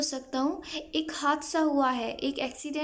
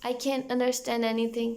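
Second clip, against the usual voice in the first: slow, deliberate English; slow model phrase; much slower than usual. Shown as a demonstration. Teacher slowly modelling the phrase for students. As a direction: spell it out slowly. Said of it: "तो बोलिए".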